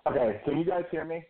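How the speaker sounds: tinny speakerphone sound; like talking through a phone speaker. Real, not acted. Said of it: "You definitely sound like you're on a speakerphone".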